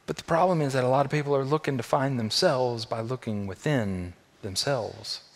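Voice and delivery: ordinary talk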